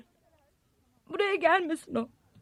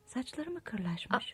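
slow hushed whisper; 4 semitones lower, 13 dB quieter, much slower than usual. Acted. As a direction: whisper while spying. Spying on ex from window.

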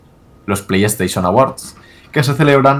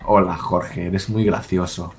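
lightly voiced letter reading, a little softer; 5 semitones lower, 7 dB quieter than usual. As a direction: read the fan letter in a mock sweet voice. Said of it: "esa carta suena".

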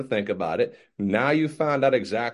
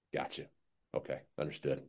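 meek acceptance; 10 semitones lower, 17 dB quieter than usual. Retold or imitated. Playing dumb salesman accepts answer.

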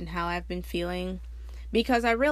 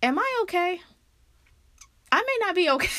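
dazed laughing; 9 semitones higher, faster than usual. Retold or imitated. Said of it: "I'm like".

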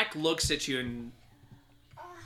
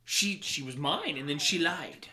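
raised, accusing, then quieter; bitter villain; 6 semitones higher, 3 dB quieter than usual. Acted. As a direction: expose the traitor to the group. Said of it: "he's just like".

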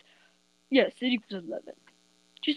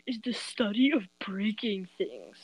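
unvoiced conspiratorial whisper; 4 semitones lower, 5 dB quieter than usual. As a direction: whisper it like a secret. Whispered joke.

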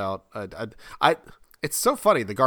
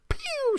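high popping shot noise; mock pew. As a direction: make a cartoon projectile sound. Imitating fork shooting out.

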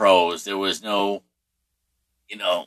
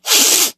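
mock sob, high noisy burst; high put-on sobbing noise; imitated sobbing; 4 dB louder than usual. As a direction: imitate a brother still sobbing. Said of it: "sobbing, you know".

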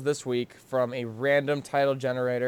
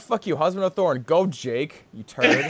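playful shout; 2 semitones higher, 4 dB louder than usual. Real, not acted. Playful mock insult.

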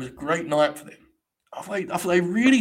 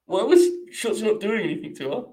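higher, pleading disbelief; incredulous; 7 semitones higher, 3 dB louder than usual. Real, not acted. Streamer questioning the wrestlers to chat, incredulous. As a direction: ask it up high, baffled.

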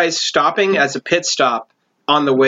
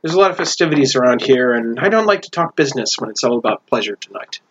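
dwarvish barkeep; faster than usual. Acted. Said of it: "and she goes".

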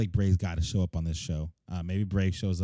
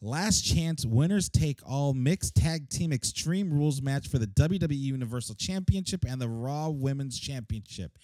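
whole title without pausing to breathe; all in one breath; 5 semitones higher than usual. Shown as a demonstration. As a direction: push through without a breath. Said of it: "let me see if I can get this out in one breath".

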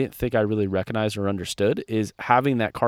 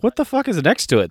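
incredulous quote; 10 semitones higher than usual. Retold or imitated. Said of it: "you're like".

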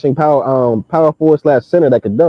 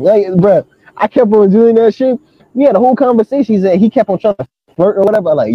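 usual speaking voice

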